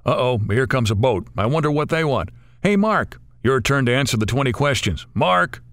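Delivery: friends calling out. Acted. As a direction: friends shouting to wake Mark. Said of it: "I hear Dan and Rich calling out".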